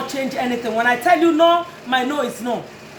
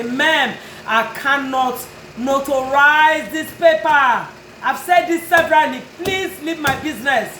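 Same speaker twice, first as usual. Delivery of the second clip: raised voice. Retold or imitated. To a customer who keeps arguing, firm raised voice. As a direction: lean in and put your foot down. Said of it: "sometimes I raise my voice".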